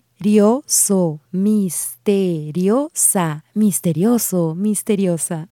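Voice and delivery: "misteriosa" slow, syllables separated. Shown as a demonstration. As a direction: break "misterioso" into syllables slowly. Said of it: "break down these words syllable by syllable".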